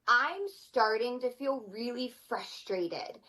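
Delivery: slow, steady naming of frustration; calm I-statement. Retold or imitated. Mom telling her child she is frustrated, slow and calm. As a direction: say it slowly and evenly, eye to eye. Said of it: "I look at them and ... I say".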